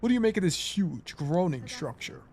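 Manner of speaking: lightly voiced hornet character; anime character voice. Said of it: "I forgot what my hornet voice was".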